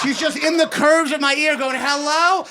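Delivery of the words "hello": annoyed hello. Retold or imitated. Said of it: "I'm saying hello like I'm annoyed".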